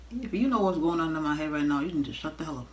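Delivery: irritated, snapping at him; annoyed retort. Retold or imitated. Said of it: "I was getting annoyed with him".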